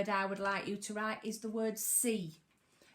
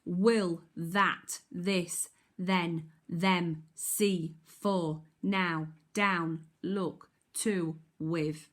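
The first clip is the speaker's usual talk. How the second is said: reading drill; 2 semitones lower, much slower than usual. Shown as a demonstration. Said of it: "can we read the high frequency words".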